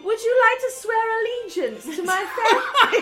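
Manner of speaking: laughing. Real, not acted. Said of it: "She couldn't even get it out".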